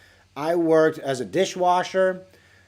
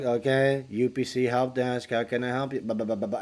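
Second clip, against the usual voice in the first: scripted help desk greeting; 4 semitones lower, 5 dB quieter than usual. Retold or imitated. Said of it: "my prefabricated speech that I have to say".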